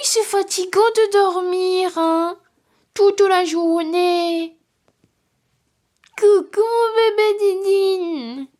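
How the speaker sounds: put-on high, cooing baby talk to the cat. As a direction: coo at the kitten like a baby, high and loud. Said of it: "ma voix de bébé". (voix de bébé aiguë pour parler au chat)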